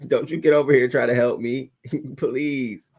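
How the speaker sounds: fast, laughing plea for help; mock plea through laughter. Imitating the fallen woman begging her coworker, laughing. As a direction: beg for help while cracking up.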